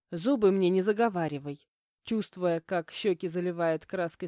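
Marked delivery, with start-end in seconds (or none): none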